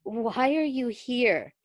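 slow, dry bewildered croak. Acted. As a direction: ask it dazed and dry. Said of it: "My throat was dry".

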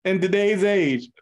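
mild, polite Canadian imitation; mock Canadian accent. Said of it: "I know Canada's known to be, like, some nice people".

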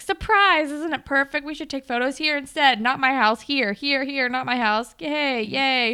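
high, loud, over-eager announcement; mock excited surprise. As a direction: oversell the surprise, imitating an eager boyfriend. Boyfriend's forced surprise, acted out.

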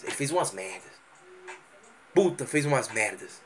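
bem mais grave e baixo, quase para si; murmúrio desanimado. Pretend. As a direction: resmunga abatido. Imitando Lucas abatido. (um Lucas desolado resmungando baixinho)

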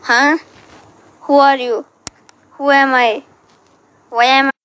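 very loud shouting questions; startled loud shouting; loud shouts. Real, not acted. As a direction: yell the questions. Shouted echo effect interruption.

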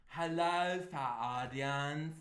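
lightly voiced theatrical greeting; a hint of a grand, drawn-out delivery; Moira Rose. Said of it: "Moira Rose".

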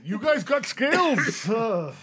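high, loud laughing taunt. Acted. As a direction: giggle through it. Laughing silly voice.

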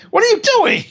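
high, put-on outraged question; mock indignant guy. Retelling the show, the guy objects to the spit, mock outraged.

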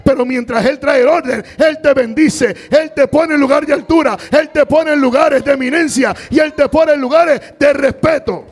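high, loud preacher's roar; fiery sermon climax; shouted preaching. Acted. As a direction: lift the church with a shout.

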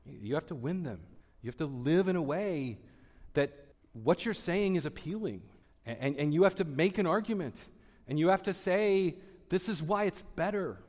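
light, imperfect Scottish lilt; Scottish accent. Retold or imitated. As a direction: imitate a Scottish mentor's counsel with a hint of his accent. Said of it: "in his Scottish accent".

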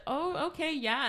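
high, thrilled little oh okay yeah; excited. Retold or imitated. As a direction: perk up and chirp it back, delighted. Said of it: "And I was so excited".

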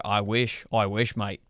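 muddled Irish-Australian put-on accent. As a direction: attempt Australian, sliding into Irish. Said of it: "mix between Irish and Australian".

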